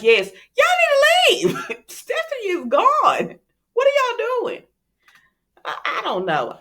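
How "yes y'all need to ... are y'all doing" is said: much higher, slow, indignant squeal; mock scandalized Chad. Chad ordering Alex and Stephanie to leave, high slow mock scolding. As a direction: scold them in a high put-on voice with a laugh. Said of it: "And Chad is like".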